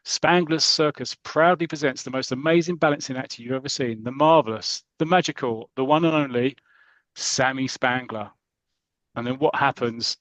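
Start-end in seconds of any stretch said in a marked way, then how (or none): 0.0-8.3 ringmaster announcement. Retold or imitated. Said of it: "a ringmaster comes out and goes".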